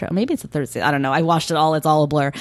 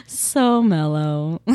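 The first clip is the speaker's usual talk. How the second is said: mellow; much slower than usual. Real, not acted. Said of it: "I'm being mellow".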